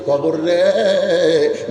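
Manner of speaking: long drawn-out lamenting call; emotional cry. Acted. Abu Zar addressing the grave, emotional drawn-out call. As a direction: hold the last syllable very long. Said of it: "আবেগে বলতে তো".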